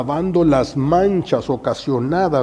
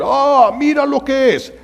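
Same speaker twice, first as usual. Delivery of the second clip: high, sneering exclamation; scornful gossip; 11 semitones higher, 5 dB louder than usual. Acted. People sneering at a prostitute, mocking. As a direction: point and sneer.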